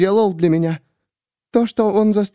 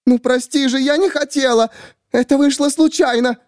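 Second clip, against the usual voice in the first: panicked apology. A narrator's reading. Miriam after shooting the narrator, high panicked. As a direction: blurt it out in panic.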